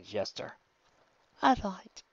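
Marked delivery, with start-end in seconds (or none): 1.4-2.0 weak breathy reply. A narrator's reading. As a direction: breathe the words out, exhausted. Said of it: "she breathed".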